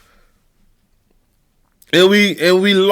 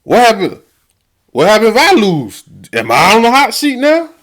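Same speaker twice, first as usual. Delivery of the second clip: worried rival coach; 4 semitones higher than usual. Retold or imitated. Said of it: "you can't help but to wonder, like".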